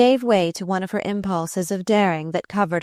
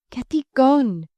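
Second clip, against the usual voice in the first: panting; 7 semitones higher, 3 dB louder than usual. A narrator's reading.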